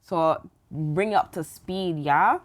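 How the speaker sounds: mock-accent recap. Host puts on slow accented recap.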